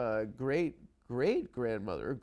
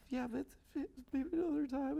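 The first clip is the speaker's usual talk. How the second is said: mock echo; 12 semitones higher, 6 dB quieter than usual. Mocking girlfriend's line back.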